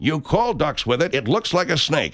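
folksy pitchman selling duck calls; radio ad read. Acted. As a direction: sell it like a cheesy radio ad.

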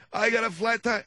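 put-on old man voice.

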